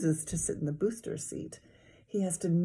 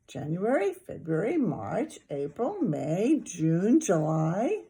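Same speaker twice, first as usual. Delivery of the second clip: recited; slower than usual. A narrator's reading. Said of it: "Fudge recited".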